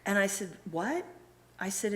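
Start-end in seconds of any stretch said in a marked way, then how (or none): 0.7-1.1 higher, questioning what; retold disbelief. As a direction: play back a stunned reaction. Retells learning the factory still stands.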